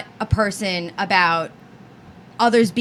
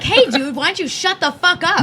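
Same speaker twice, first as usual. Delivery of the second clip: mock confrontation; 5 semitones higher than usual. Acting out confronting a fellow passenger.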